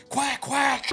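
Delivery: high, far-off quacking; duck quack. Retold or imitated. Imitating duck noise.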